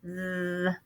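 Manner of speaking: soft th with tongue out; tongue sticking out. Shown as a demonstration. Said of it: "when you're making the T H sound".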